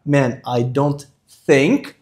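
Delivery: slow model, "think" as "thenk"; teacher's slow "think" with eh-like vowel. Shown as a demonstration. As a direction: stretch it out and open the i of "think" toward ê. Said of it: "o I com som de E".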